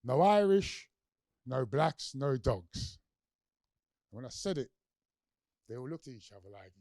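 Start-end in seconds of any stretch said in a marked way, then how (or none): 0.0-3.0 loud rallying call to a crowd. Retold or imitated. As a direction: proclaim it to five thousand marchers. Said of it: "I reminded them of this sign".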